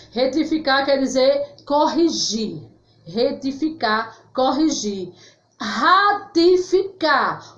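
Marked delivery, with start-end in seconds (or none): 5.6-7.5 Ratificar said slowly with a raised start; slow clear demo word. Shown as a demonstration. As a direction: draw out Ratificar, syllable by syllable. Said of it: "O que é ratificar?".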